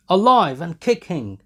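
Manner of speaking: loud, high mocking call; jeering shout. A narrator's reading. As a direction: jeer it out. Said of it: "they shouted on all sides".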